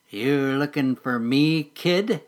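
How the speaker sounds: slow, oily, lightly voiced mole; greasy mole. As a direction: ooze the question out slyly. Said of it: "greasily asked the mole".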